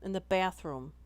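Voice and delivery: broad, drawn A in "bathroom"; "bathroom" with a stressed, regional short A; emphasised A. Shown as a demonstration. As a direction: lean on the first vowel of "bathroom". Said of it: "Emphasis on A".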